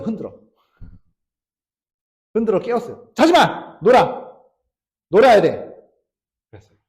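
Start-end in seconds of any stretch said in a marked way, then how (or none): 3.1-5.7 retold shouting. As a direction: bark at her to stay awake. Father keeps daughter awake. (딸에게 자지 말라고 외치는 아빠의 큰 소리)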